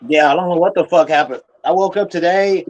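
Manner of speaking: loud, fast and exasperated; fed-up rant; frustrated outburst. Real, not acted. Angry complaint about weed ban.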